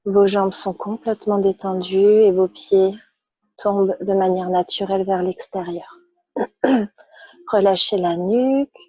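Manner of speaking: calm, measured yoga-class instruction; unhurried guidance with pauses between phrases; guided relaxation. Real, not acted. Yoga teacher guides students lying on their backs, calm guided relaxation.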